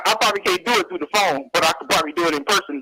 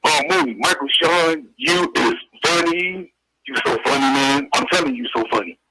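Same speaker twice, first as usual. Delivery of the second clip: lightly lowered, gruff-toned comedian voice; Paul Mooney impression; 4 semitones lower than usual. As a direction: play the old-school comic hyping the host. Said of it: "I do impersonations of, uh, Paul Mooney".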